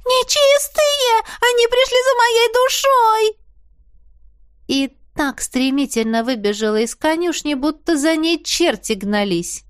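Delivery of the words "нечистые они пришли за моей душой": very high, loud, slow drawn-out shriek; terrified scream. A narrator's reading. Янина sees faces at the window, terrified shriek. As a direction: shriek as if you see a demon. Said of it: "пуще прежнего вереща".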